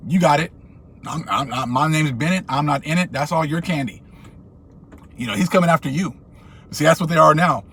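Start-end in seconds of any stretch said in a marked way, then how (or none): 0.1-4.0 calmly wash your hands of it; cool refusal. Retold or imitated. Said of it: "I'm like".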